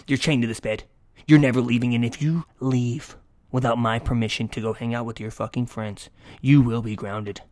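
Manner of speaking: loud mock parent, slowing on the threat; over-the-top scolding. Boyfriend grounding girlfriend like a child, over-the-top loud scolding. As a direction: lay down the law, hammed-up. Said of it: "go over the top".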